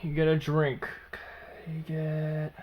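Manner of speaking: whisper. A narrator's reading.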